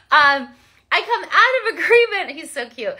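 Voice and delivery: laughing. Real, not acted. Still amused by her son.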